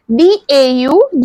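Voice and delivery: spelling out letters. Shown as a demonstration. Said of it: "English में कहते हैं डॉटर".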